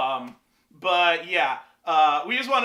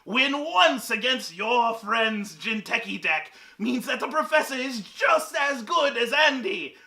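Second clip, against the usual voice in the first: mock villain rant. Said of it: "This is stupid. I'm gonna stop that".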